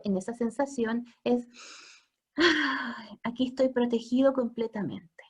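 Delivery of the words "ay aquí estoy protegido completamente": hushed sigh of safety; baby's relieved whisper. Retold or imitated. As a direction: breathe it like a safe, content baby. Baby's inner feeling voiced.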